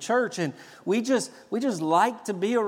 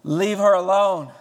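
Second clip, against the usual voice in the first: louder, firm command; stern rebuke; 7 dB louder than usual. Retold or imitated. Jesus rebuking Judas with a stern louder command. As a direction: shut it down with fire in the voice. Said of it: "probably with fire in his eyes".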